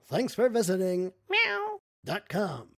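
lightly voiced chirpy computer greeting; a hint of an automated website voice; AOL-style voice. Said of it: "AOL type voice saying".

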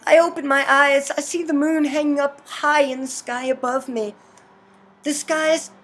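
measured visual-novel narration; story narration. A narrator's reading. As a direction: read the game's narration aloud in an even storytelling voice. Reads game narration aloud.

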